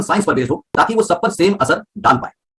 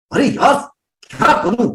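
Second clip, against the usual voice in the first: higher, tense exasperation; frustrated, high pitch; 6 semitones higher, slower than usual. Shown as a demonstration. Teacher contrasting takes, high pitched frustrated. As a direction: strain the voice, not the volume. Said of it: "pitch high है, volume कम है".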